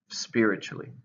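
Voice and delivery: "Spiritually" said SPI-ri-tual-ly, stress on SPI; stress on first syllable. Shown as a demonstration. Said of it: "stress on the first one".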